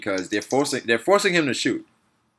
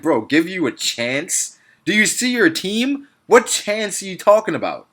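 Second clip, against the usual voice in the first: incredulous comeback; 6 semitones higher, slower than usual. Acted. Mock reply to Kerr's complaint.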